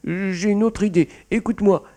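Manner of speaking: high-pitched begging cat; pleading. A narrator's reading. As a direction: beg anxiously to be heard. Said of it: "supplia-t-il". (supplication affolée)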